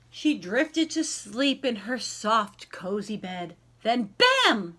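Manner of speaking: lively, sing-song picture-book reading; story narration. A narrator's reading. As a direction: read it like a bedtime rhyme to a class. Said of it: "reads picture book aloud".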